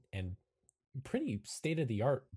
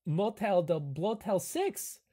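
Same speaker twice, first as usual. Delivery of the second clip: lightly voiced quirky camp host; helpful but hesitant character voice; Igor; 6 semitones higher, 4 dB louder than usual. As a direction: offer the odd suggestion in character. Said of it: "And Igor says".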